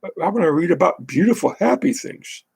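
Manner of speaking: high breathy sarcastic art-lover voice; sarcastic impression of an art fan; mocking art fan. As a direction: mimic a fed-up reader, mocking. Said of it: "They wanna read this and go".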